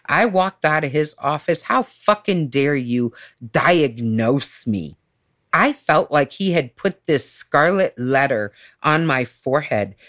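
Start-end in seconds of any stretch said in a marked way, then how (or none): 1.6-5.0 slow, emphatic retold indignation; retold outrage. Client confronting therapist over a diagnosis, retold outrage. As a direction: draw out each word in offended disbelief. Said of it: "And I was pissed".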